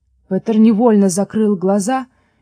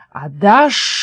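hissing snake. A narrator's reading. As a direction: hiss it like a snake, drawing out the final sh. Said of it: "прошипела змея".

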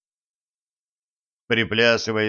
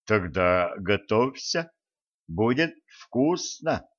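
mustache twirling villain; slower than usual. Acted. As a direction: savour the threat like a gleeful villain. Spirit mocks the elder.

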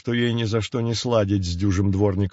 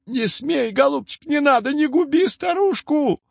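desperate wailing hag; 14 semitones higher than usual. A narrator's reading. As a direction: wail it desperately like a crone. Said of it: "отчаянно завыла Яга". (отчаянный вой ведьмы)

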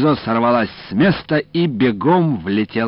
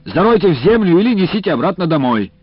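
higher, loud shout from afar; 10 semitones higher, 8 dB louder than usual. A narrator's reading. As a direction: call out across the yard. Official still shouting.

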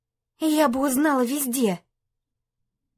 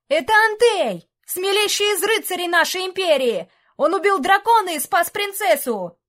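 much higher, eager crowd praise; adoring crowd voice; 8 semitones higher, 3 dB louder than usual. Acted. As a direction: cheer for your hero. (восторженные голоса толпы)

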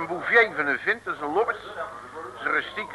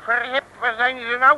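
surprised; 7 semitones higher, 4 dB louder than usual. Acted. Driver suddenly loses the crooks.

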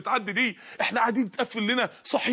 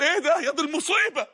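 near scream; 5 semitones higher than usual. Retold or imitated. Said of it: "كاد يصرخ على القبر".

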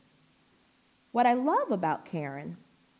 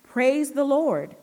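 slow, much louder, higher proclamation; ringing praise shout; 6 semitones higher, 9 dB louder, slower than usual. Acted. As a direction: let the praise ring out, each word stretched. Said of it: "their voices rang out".

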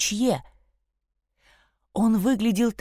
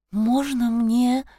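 put-on timid girl asking; 4 semitones higher, much slower than usual. Chloe asks to touch horns.

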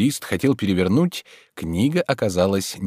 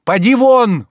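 a higher, louder "Поди вон!" than the first, near a yell; furious shout; 13 semitones higher, 10 dB louder, slower than usual. A narrator's reading. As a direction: order him out in full fury. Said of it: "повторил Илья Ильич". (яростный крик: поди вон)

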